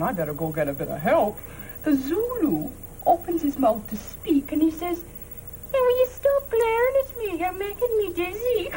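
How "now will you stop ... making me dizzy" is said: higher-pitched retold Irish brogue. Woman quoting the Zulu to her family, Irish brogue. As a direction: mimic an indignant Irish brogue. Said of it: "He said it in an Irish brogue".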